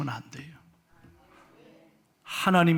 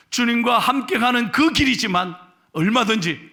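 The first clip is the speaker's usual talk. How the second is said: ordinary delivery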